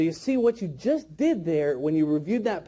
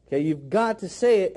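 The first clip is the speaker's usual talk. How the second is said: ordinary talk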